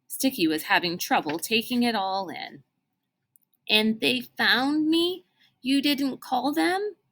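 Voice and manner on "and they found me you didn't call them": stunned questioning. Acted.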